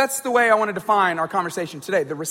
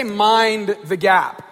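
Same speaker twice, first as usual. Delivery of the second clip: British announcement; 3 dB louder, much slower than usual. Retold or imitated. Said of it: "they say".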